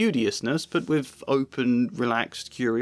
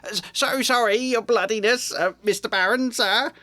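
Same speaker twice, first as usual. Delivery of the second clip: high, fawning and oily; greasily; 10 semitones higher, 3 dB louder than usual. A narrator's reading. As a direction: grovel to the Baron. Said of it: "he said greasily".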